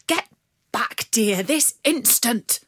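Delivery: loud, slow commanding; a father snapping at his daughter; stern order. Acted.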